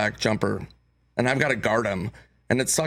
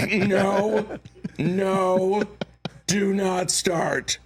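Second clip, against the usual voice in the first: giggling, drawn out high plea; cracking up while pleading; laughing; 8 semitones higher, much slower than usual. Retold or imitated. Trying not to laugh with friend.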